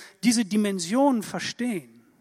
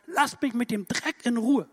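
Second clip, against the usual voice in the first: retold shouting; 4 semitones higher, 4 dB louder than usual. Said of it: "hat die angeschrien".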